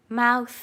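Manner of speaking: ماوث trailing into a long breath of TH; ماوث with a sustained, vibration-free TH; voiceless TH. Shown as a demonstration. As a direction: stretch the last sound of ماوث without any throat buzz. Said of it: "هیچ لرزشی نداره".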